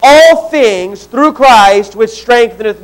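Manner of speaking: slow, deliberate verse reading. Shown as a demonstration. Pastor to congregation, slow deliberate reading. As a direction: read it slowly so they can follow. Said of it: "I'll read it first".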